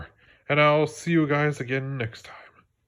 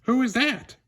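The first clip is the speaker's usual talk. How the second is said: squeaky little frog asking; tiny frightened child voice; high child voice; 11 semitones higher, 4 dB louder than usual. Acted. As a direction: pitch way up like a small scared child. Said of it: "I asked".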